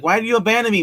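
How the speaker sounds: high, loud mock plea; imitated pleading. Robot confronts mistress who abandoned it, high imitated plea.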